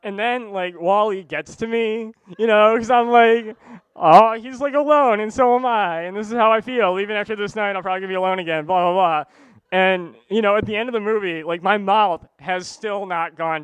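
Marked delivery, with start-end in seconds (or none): 4.0-9.2 emotional gushing. Retold or imitated. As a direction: pour your heart out loudly. Swollen mouth friend's confession.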